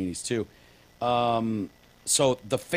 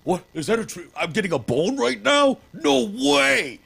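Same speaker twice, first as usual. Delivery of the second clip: high, louder, rising into giddy disbelief; excited dog voice; 10 semitones higher, 6 dB louder than usual. Retold or imitated. Dog voiced as it spots the treat, high and giddy. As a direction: play the dog thrilled at a bone. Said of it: "And they're like".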